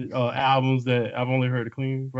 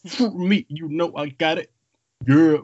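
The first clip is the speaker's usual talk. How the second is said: mock rapper voice; 4 semitones higher than usual. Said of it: "He was just like".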